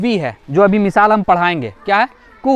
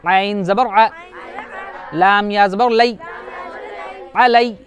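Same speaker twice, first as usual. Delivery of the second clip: spelling drill; slower than usual. Shown as a demonstration. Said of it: "उसके बाद अलय्या".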